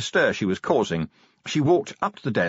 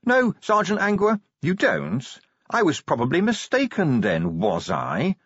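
much higher, squeaky, panicked; terrified squeak; 8 semitones higher than usual. A narrator's reading. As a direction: gasp it out pinned to the wall. Pinned watchman answers in terror.

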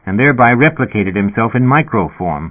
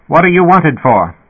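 high-pitched demanding dispatcher; sputtering intercom speaker; 8 semitones higher, 4 dB louder than usual. A narrator's reading. Dispatcher questioning the wanted man, sputtering. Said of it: "the speaker sputtered".

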